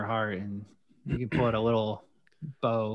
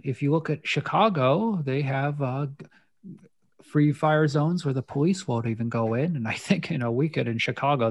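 lightly voiced Midwest nerdy old man; a hint of a nerdy old man. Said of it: "nerdy old man".

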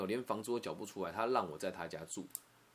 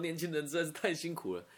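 higher, laughing auntie sympathizing; kind auntie; 6 semitones higher than usual. Retold or imitated. Voicing the noodle-stall auntie. (笑着模仿心软的阿姨)

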